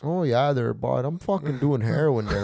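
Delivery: lightly hammed-up Canadian accent, drawn-out "Oh, yeah"; a hint of a Canadian hoser voice; mock Canadian accent. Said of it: "Every time I hear those Canadian people".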